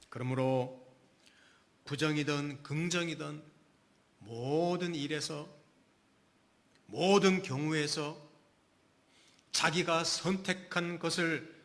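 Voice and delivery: usual speaking voice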